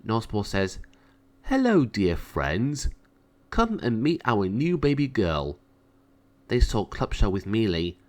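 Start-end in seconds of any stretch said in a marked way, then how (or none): 1.4-5.6 slow, welcoming king's voice, only lightly put on; a proud new father greeting friends, slowly; lightly voiced proud father. King Nosborough greets friends.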